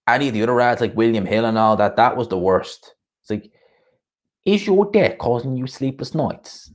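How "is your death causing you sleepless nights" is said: half-done East London ad voice, higher and slow; Coogan's East London accent. Retold or imitated. Mocking the gambling-ad pitchman to stream viewers in a rough East London accent. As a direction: ham up an East London ad read, slowly. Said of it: "I can't do Coogan's accent".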